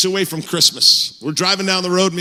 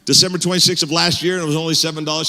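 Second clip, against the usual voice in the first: disbelief. Retold or imitated. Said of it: "and she's all".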